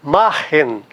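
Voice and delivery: Machen, stressed on the opening Ma; stress on first syllable. Shown as a demonstration. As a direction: put the weight on Ma in Machen. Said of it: "tem que estar no ma".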